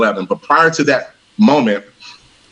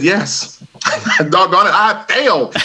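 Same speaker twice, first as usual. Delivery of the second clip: higher, laughing admission of defeat; rueful laugh; 6 semitones higher, slower than usual. Retold or imitated. Son admitting to his dad he failed, rueful laugh.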